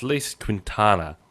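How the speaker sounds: "Lise Quintana" said slowly; tentative name pronunciation. Shown as a demonstration. Host attempting guest's name, slow careful "Lise Quintana". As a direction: sound out "Lise Quintana" as best guessed. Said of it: "say it how my brain wants to say it".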